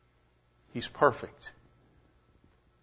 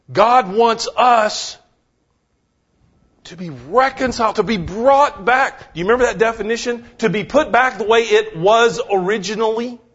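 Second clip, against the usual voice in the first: fervent preaching; 7 semitones higher than usual. Acted. Preacher rises in fervor.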